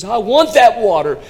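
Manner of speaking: high, loud desperate plea; impassioned retold shout; imitated tearful outcry. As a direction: cry out the confession as the weeping man. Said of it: "With tears streaming down his cheeks".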